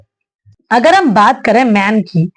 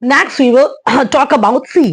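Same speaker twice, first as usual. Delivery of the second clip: slow English line; much slower than usual. Shown as a demonstration. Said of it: "English phrase in lesson".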